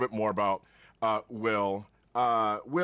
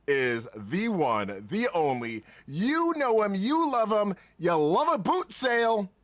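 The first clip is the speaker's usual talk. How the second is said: show introduction; slower than usual. Acted. Host introducing a streaming friend to listeners, building announcer hype. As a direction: announce the guest with growing hype. Hosts the show's opening introduction.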